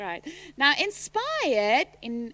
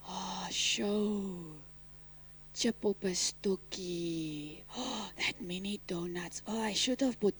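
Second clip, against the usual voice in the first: daydreaming; 9 semitones lower, 13 dB quieter, slower than usual. Pretend. Students' daydream voiced.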